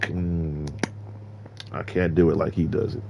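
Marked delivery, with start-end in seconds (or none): 0.0-0.7 smack your lips like the drink is delicious. Retold or imitated. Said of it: "that R-Truth smack".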